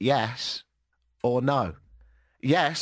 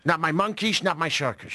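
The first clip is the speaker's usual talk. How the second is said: lightly lispy politician impression; Donald Trump; 4 semitones higher than usual. Shown as a demonstration. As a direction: try out a slushy, lispy voice. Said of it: "trying to do a sort of lispy thing".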